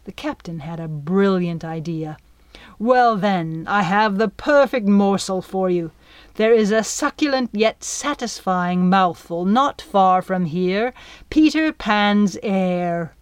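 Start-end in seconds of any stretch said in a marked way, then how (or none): 2.8-13.1 sly offer. Acted. Captain wheedling the dragon.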